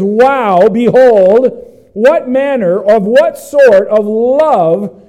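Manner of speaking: slow, marvelling question; awed wonder. Shown as a demonstration. Pastor voicing John marvelling at God's love, slow. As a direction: savour each word in amazement. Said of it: "He says".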